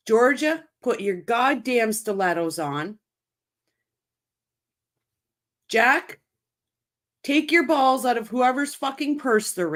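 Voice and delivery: angrily calling out the officials by name; fed-up venting at the authorities; heated rant. Real, not acted. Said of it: "I'm heated".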